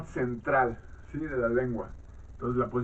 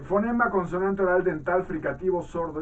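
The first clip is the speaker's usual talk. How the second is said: higher, measured reading voice; textbook read-aloud; 5 semitones higher than usual. Acted. Teacher reads phoneme definitions to students, measured read-aloud. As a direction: read out a phonetics text for a class.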